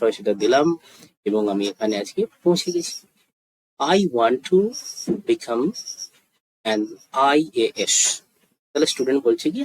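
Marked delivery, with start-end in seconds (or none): 3.8-8.2 slow, spaced-out model sentence; slow demonstration. Shown as a demonstration. Teacher models a student's ambition for learners, slowly. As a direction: leave a pause after each phrase. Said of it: "আস্তে আস্তে বলছি".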